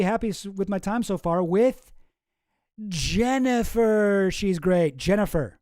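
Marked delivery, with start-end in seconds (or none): 0.4-4.3 drawn out. Shown as a demonstration. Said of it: "I'm very happy with my time so far with Jennifer".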